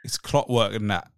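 lightly attempted English accent. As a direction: echo it in a bit of British. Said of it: "I can do, like, little bits of the English accent".

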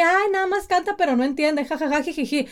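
a high, sing-song, dismissive parent giggling it off; mocking careless parent. Mother mocking parents who shrug off lyrics, high and giggly. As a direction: brush it off with a silly titter.

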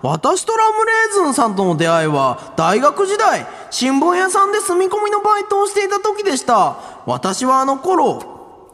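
lightly theatrical letter reading; sample listener letter. Acted. Host gives an example thank-you mail, earnest recitation. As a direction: recite an earnest testimonial, stretching the phrases. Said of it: "例えば".

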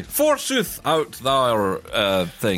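hammed-up Elizabethan actor; hammy stage actor. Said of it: "I went old, old E English there".

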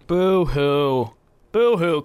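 mocking boo-hoo sobs; fake crying. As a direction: pretend to cry, taunting. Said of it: "Cry me a river".

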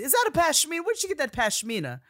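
high, loud, mock-grand question; hammed-up fashion editor admiring a scarf. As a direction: gasp over the pashmina like a fashion icon. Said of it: "his transatlantic accent".

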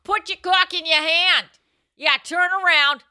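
put-on light Boston accent; Boston porn accent. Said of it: "Boston accent".

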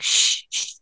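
whispered shushing, no voice; hushing whisper. Retold or imitated. Adults hushing her as a kid, whispered shush. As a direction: hush a child who knows too much. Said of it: "So it was like".

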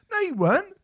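high laughing retort. Real, not acted. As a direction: scoff through a laugh. Laughing rebuttal.

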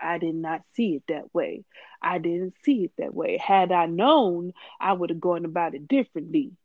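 a hint of a formal, deliberate celebrity apology; imitating T I. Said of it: "That's how he talks".

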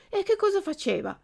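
high eager question; eager puppet question. Acted. Puppet asking the pigeon about his father, high eager voice. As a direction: ask breathlessly.

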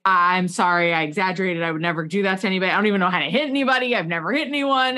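fast, rushed pleading apology; panicked apology. Retold or imitated. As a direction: rattle it off scared on the phone. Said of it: "I called immediately and said".

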